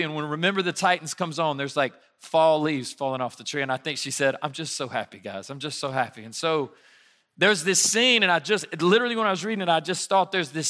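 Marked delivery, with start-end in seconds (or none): 4.4-6.2 daughter's happy sigh. Retold or imitated. Young daughter quoted as blissful.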